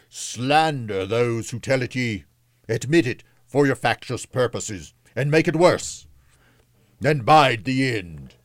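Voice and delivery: high, denouncing ghost voice; spirit crying out. A narrator's reading. The spirit denounces the city, crying out. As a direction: denounce them, pitch climbing. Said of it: "cried the spirit, stretching out its hand".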